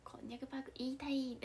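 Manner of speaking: hushed, breathy confession of a forbidden urge; whispered wish. Real, not acted. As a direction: whisper it like a guilty secret.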